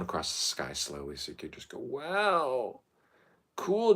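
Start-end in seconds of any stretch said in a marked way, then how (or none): 1.8-3.9 high, drawn wow; acted wonder. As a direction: marvel in a high put-on voice. Acts out watching the comet.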